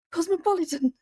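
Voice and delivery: proudly declaring herself worldly; playful exclamation. Real, not acted. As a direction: announce it like a punchline. Jokey exclamation about her mixed accent.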